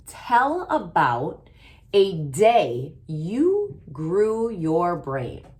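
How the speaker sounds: slow, deliberate prompt read; reading slowly. Shown as a demonstration. Teacher reading the writing prompt slowly. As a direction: read each word for the class. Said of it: "Let's read it".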